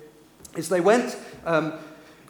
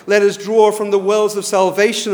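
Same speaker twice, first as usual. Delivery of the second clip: loud, raised priestly call; 4 semitones higher, 12 dB louder than usual. Retold or imitated. Priest to cheering temple crowds, calling out. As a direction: call it out high over the cheering. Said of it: "they would call out".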